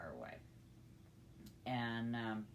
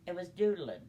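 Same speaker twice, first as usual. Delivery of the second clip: amused punchline; 6 semitones higher, 8 dB louder than usual. Real, not acted. Punchline about the elephant pooping.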